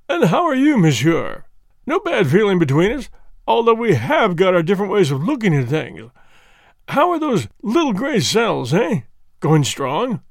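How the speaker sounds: put-on friendly, teasing police inspector greeting an old rival; a hint of a bluff English detective; inspector Japp voice. Japp speaks in dialogue.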